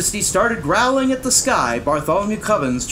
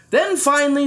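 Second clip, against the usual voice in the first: ordinary delivery, nothing marked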